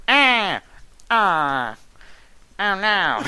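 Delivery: high, hammed-up wail; Mike Minotti. Shown as a demonstration. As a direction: demonstrate a silly mock-dismayed voice. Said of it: "That's the Mike Minotti voice".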